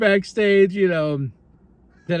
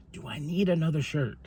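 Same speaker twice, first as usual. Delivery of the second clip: musing to self; 8 dB quieter than usual. Retold or imitated. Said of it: "I was like".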